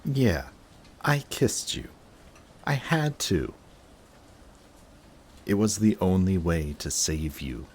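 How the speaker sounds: a high, flustered confession; flustered outburst. Acted. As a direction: caught out, she admits it in a rush. Flustered admission of a kiss.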